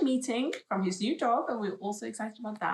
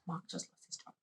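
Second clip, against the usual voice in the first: panicked phone call; 3 dB louder than usual. Retold or imitated. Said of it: "I call one of my best friends and I'm like".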